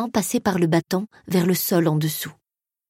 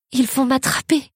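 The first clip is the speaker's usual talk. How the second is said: put-on higher-pitched, frightened cry of a child in narration; tearful fear; 6 semitones higher than usual. A narrator's reading. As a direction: plead in a high, tearful panic. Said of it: "pleurai-je".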